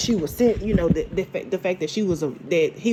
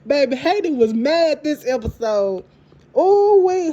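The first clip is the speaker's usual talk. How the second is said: usual speaking voice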